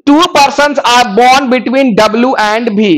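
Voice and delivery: slow, deliberate reading of the English clue. Shown as a demonstration. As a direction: read it word by word for the class. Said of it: "reading clue slowly aloud".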